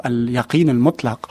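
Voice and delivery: al-yaqin al-mutlaq said in Arabic sounds; Arabic pronunciation of al-yaqin al-mutlaq; Arabic phrase. Shown as a demonstration. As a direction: quote al-yaqin al-mutlaq as an Arabic speaker would. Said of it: "c'est le terme qu'il a utilisé en arabe".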